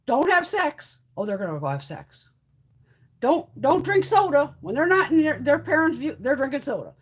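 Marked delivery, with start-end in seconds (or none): 0.1-1.0 higher-pitched imitation of a parent's order; forbidding parent. Voicing a parent forbidding things. 3.2-4.6 slow, raised imitation of a parent's warning; forbidding parent. Voicing a parent forbidding things.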